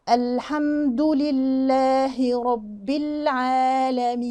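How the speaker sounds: very slow recitation with held letters; measured recitation. Shown as a demonstration. Teacher models the verse for students, slow measured recitation. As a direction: recite slowly, drawing out each long vowel. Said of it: "ده زمن كده بنحافظ عليه".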